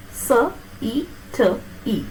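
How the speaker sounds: "S, E, T, E" sound by sound with gaps; sounded out piece by piece. Shown as a demonstration. Teacher shows the two E in city, sounded out piece by piece. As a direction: break "S, E, T, E" into separate sounds. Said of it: "In city, you have two E".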